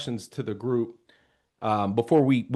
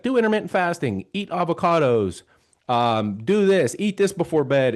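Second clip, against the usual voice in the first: higher-pitched, lightly mocked list of commands; lightly imitated barrage of diet advice; mimicked social media advice; 4 semitones higher than usual. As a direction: reel off tips like competing online advisers.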